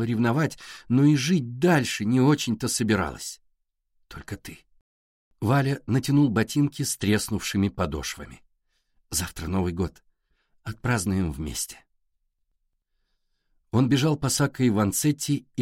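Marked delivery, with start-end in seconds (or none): 4.1-4.6 unvoiced intimate whisper. Valya's intimate reassurance. 9.1-11.8 gentle reassuring. Acted. Valya soothing Alisa.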